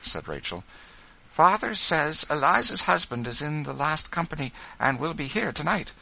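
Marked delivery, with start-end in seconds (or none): 1.3-5.9 high, lifted woman's voice; bright-spirited, higher announcement; excited news. A narrator's reading. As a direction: share good news eagerly. Rachel breaks good news.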